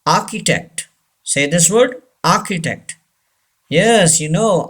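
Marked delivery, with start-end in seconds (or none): 0.1-0.9 architect as "AH-ki-tect"; silent R. Shown as a demonstration. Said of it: "R is silent". 2.2-3.0 architect as "AH-ki-tect"; silent R. Shown as a demonstration. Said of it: "R is silent".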